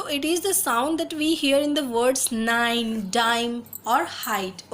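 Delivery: reading the rule aloud very slowly, word by word; slow textbook reading. Acted. Teacher reading an English phonics rule to students, slow and deliberate. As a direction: read it like dictation for the class.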